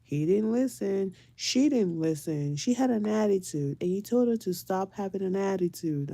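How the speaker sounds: lightly voiced child's complaint; complaining child. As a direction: report on a sibling like an aggrieved kid. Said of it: "second complaint".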